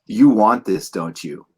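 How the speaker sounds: seductive Sith lord, dropping to a hush; tempting devilish whisper. Acted. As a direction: tempt them like the Emperor. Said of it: "you're destroying Revenge of the Sith for me".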